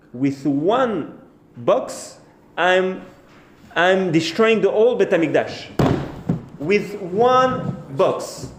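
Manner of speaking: drawn-out, emphatic bird's boast; boastful. Acted. Bird boasting to the other bird it can destroy the Temple, boastful.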